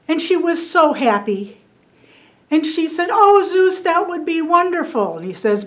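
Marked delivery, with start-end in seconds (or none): 3.1-5.2 higher, thrilled bee voice; a tiny bee bursting with joy; delighted little bee. Acted. Little bee thanking Zeus, higher and delighted.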